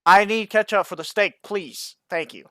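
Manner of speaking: mock-serious diner's request. Diner asking for steak ketchup, mock serious. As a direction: start high and loud, settle into polite firmness. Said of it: "I can do my more serious voice".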